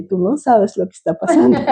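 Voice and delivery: mild amusement, breaking into a laugh at the end; retold amused laughing. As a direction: recall a private joke and let a chuckle out as you finish. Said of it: "me quedé riendo porque dije". (risa contenida que se escapa al final)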